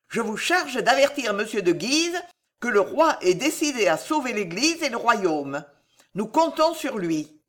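lightly voiced queen issuing a command. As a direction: address the marshal with royal authority.

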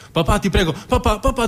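put-on high pleading little boy's voice; begging child. Young son begging his father for football, high and pleading. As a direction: beg your dad like a small kid.

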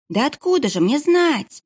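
put-on high, tearful child's voice; tearful babbling boy. Crying kitchen boy pleads with the monk, high and tearful. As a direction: babble it through tears. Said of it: "пролепетал поварёнок".

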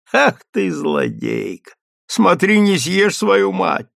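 fond mock scolding, slowed; playful baby talk. Sutler woman teases the greedy baby, fond mock scolding.

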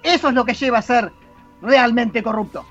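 dramatic reading of the Doctor's tirade; the Sixth Doctor. Acted. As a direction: declaim an outraged speech against a corrupt civilisation. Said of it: "Buena interpretación".

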